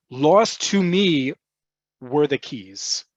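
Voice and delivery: slow, word by word; slow Yoda-style English. Shown as a demonstration. Teacher giving a Yoda-style literal gloss, slow. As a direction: spell out the odd word order slowly. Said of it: "In very Yoda sounding English".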